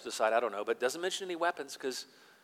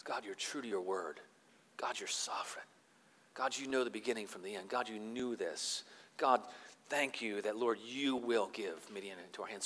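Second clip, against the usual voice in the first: Gideon's quiet worship. Retold or imitated. Gideon worshipping God after hearing the dream, hushed prayer. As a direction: whisper your thanks to God. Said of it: "he worships".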